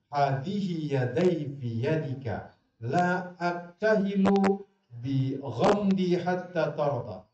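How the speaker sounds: drawn-out, chanted Arabic; slow devout recital; slow Arabic recitation. Acted. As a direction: intone the Arabic words slowly. Reciting wife's words in Arabic.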